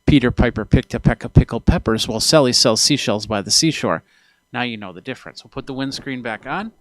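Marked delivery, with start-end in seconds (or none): 0.0-4.0 louder, with P's popping into the microphone; close-on-mic read with hard plosive pops; straight into the mic. Shown as a demonstration. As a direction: turn square to the capsule and punch the P's. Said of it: "turn into the microphone and say".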